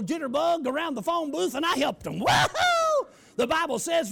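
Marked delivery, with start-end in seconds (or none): 2.2-3.1 loud, high celebrating whoop; high shouted woohoo; joyful whoop. Retold or imitated. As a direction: whoop it up like at a revival. Celebrating around the phone booth.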